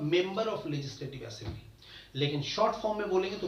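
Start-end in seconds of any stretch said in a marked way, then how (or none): 0.1-1.6 very slow, every word spaced apart; slow full form. Shown as a demonstration. Teacher spelling out the full form of MLA, very slow. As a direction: spell the phrase out slowly for learners. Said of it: "full form में बोलेंगे तो उसका उच्चारण क्या होगा".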